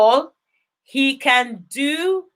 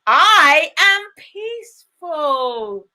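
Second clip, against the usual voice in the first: slow affirmation; 2 semitones higher, slower than usual. Shown as a demonstration. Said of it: "make sure you shout it with so much conviction".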